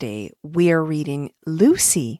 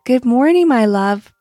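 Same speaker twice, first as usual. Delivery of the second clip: warm mother voice; 4 semitones higher, 4 dB louder than usual. Acted. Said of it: "greeted Lucy's mother".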